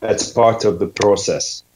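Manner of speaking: learner copying a Scottish accent. Shown as a demonstration. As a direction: repeat it carefully in Scottish. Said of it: "You're Scottish all the way through".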